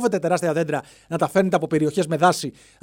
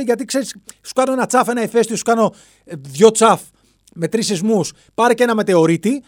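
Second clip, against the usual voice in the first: mother nature; 5 semitones higher than usual. Acted. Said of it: "Αυτό θα μας έλεγε ότι".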